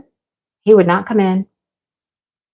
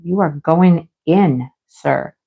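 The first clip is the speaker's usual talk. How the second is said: firm scolding; 6 semitones lower, much slower than usual. Retold or imitated. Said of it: "And I'm like".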